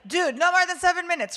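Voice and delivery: loud, high, playful exclamation; mock warning. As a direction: call it out in comic disbelief. Jokingly voicing the sermon clock's warning.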